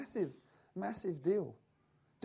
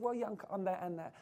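softer, half-hearted mumble; passive shrug; 4 dB quieter than usual. Retold or imitated. Preacher mocking lukewarm believers, softer and half-hearted. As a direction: shrug it off like you don't care. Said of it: "Not this kind of passive".

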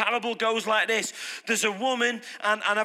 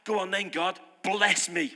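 lazy dare; 3 semitones lower than usual. Retold or imitated. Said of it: "you kinda sat there like that".

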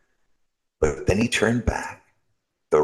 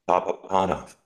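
mysterious voice; faster than usual. Acted. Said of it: "said the voice again".

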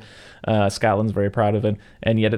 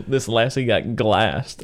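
put-on Scottish accent; much slower than usual. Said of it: "I just love that he says".

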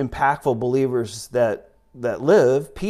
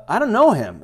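higher-pitched, insistent denial; emphatic denial; 8 semitones higher, 3 dB louder than usual. Acted. Peter denying Jesus to the servant girl, emphatic. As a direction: deny it with a high, falling tune.

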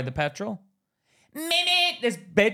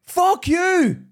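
high, loud mocking defiance; defiant fuck-you; 9 semitones higher, 5 dB louder, much slower than usual. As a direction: throw it back at them. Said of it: "and it's like".

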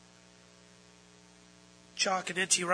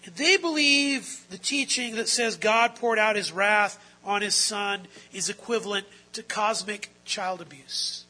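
louder, emphatic preacher delivery; forceful preaching; 4 semitones higher, 9 dB louder than usual. Real, not acted. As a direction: drive it out to the congregation.

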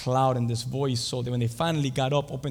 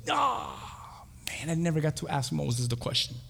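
airy groaned "oh", then a softer lament; mock letdown at a missed chance; disappointed Peter; 5 dB quieter than usual. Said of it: "I wonder what Peter said".

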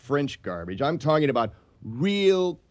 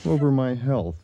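crying. Acted. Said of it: "You're crying over me".

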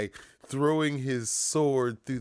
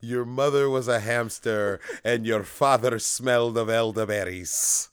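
mock French accent, a touch louder; bad French accent; 5 dB louder than usual. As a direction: taunt in a hammed-up French accent. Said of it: "That was a terrible French accent".

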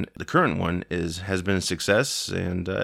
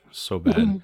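mock disgust; 13 semitones higher, 3 dB louder than usual. Real, not acted. Mocking Keanu Reeves' accent.

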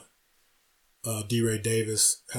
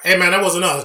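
higher, louder innocent protest; imitating D. Ray; 7 semitones higher, 7 dB louder than usual. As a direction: protest your innocence, half laughing. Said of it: "Ray was like".

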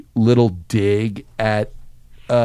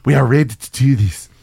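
put-on German accent. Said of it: "that's my quick German accent there".

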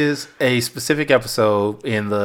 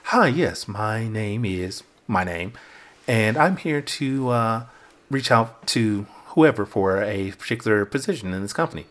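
slow, softer, polite professional voice; job interview voice; 3 semitones lower, 6 dB quieter than usual. Shown as a demonstration. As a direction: put on a careful formal job-applicant tone, slowly. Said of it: "If I am going to a job".

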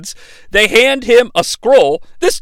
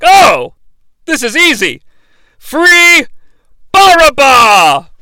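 a cocky, higher voice, with Barabbas drawn out loud; smug gloating villain; 4 semitones higher, 5 dB louder, slower than usual. Retold or imitated. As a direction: gloat like it's already won. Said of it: "and he's like".

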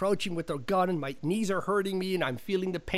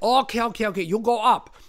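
higher, louder accented director impression; John Woo; 6 semitones higher, 6 dB louder than usual. Director sending stand-in up the knoll, mock exasperated. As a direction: imitate a director giving in, broken English. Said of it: "he's like".

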